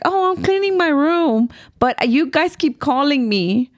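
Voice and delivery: high-pitched imitation of a paranoid complaint; retold paranoid grumble, drawn out at the end.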